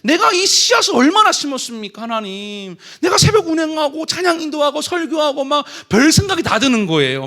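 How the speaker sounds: complaining to God. Retold or imitated. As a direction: hurl the blame upward at God. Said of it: "하나님 탓을 한 겁니다".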